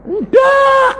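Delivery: sudden very high, loud shout of Ndak; emphatic no. Real, not acted. Preacher shouting the answer at the congregation. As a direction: blurt it out like a flat refusal.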